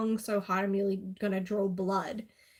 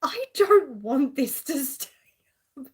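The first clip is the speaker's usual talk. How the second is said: urgent whisper; 4 semitones higher, 6 dB louder than usual. Retold or imitated. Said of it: "I'm like".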